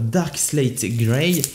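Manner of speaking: "Dark Slate Grey" said with an English accent, not quite polished. Shown as a demonstration. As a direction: pronounce the color name the English way, a bit clumsily. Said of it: "mon accent anglais, c'est vrai qu'il est pas fameux". (avec un accent anglais pas très réussi)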